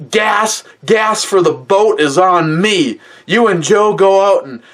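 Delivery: wound-up grandpa declaring a treat; worked-up grandpa. Retold or imitated. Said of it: "and he goes".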